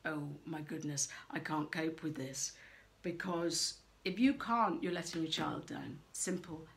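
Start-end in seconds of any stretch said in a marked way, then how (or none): 0.0-2.5 mock flustered parent. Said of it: "get over your".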